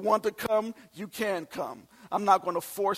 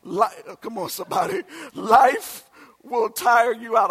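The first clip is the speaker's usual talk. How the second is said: preaching shout; 3 semitones higher, 6 dB louder than usual. Acted. Pastor calls out to the congregation, shouting. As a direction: shout it out to the church.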